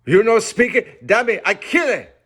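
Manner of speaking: high, loud broken-English threat; threatening cannibal. A narrator's reading. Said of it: "And so saying".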